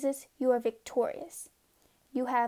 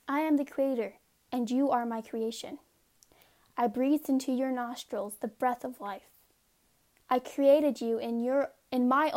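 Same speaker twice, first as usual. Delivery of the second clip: steady, measured devotional reading; earnest Bible reading aloud; scripture reading. Acted. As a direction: read it like a sacred text, unhurried. Reads scripture as God speaking.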